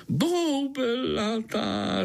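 very slow, high, savoured boubelatá; beaming mosquito boubelatá; delighted. Acted. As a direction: drawl out boubelatá with relish. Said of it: "rozzářil se komár".

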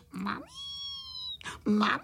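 acted tearful cry for mummy; bawling for mum. A narrator's reading. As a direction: wail it out with a long last vowel. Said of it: "zase brečeli na celé kolo a volali".

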